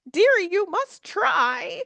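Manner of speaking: very high, slow fussing auntie. Retold or imitated. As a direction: coo it like a doting old aunt. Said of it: "that's my auntie voice right there".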